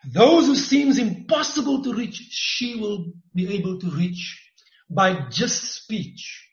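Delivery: emphatic prophetic preaching; fiery preacher sermon. Acted. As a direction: declare it over her with fire. Prophetic word to Ray.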